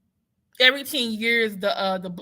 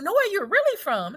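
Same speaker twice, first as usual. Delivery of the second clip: much higher, pushy mock follow-up; mocking pushy questioner; 11 semitones higher than usual. Imitating a stranger pressing where she's really from, higher.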